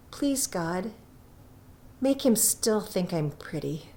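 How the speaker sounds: soft, hushed little prayer; quiet prayer. Acted. Della praying softly as Jim comes up the hall. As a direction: murmur it softly to God. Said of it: "said little prayers quietly".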